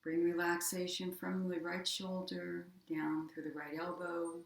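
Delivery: even, unhurried meditation voice with long pauses; guided meditation. Acted. Yoga teacher guiding listeners through body relaxation, guided meditation. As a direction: guide them gently into rest, leaving space between phrases.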